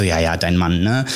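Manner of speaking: retold sceptical brush-off. Answering a follower about her husband, mildly sceptical. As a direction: play back your own doubt. Retells doubting Julia's offer.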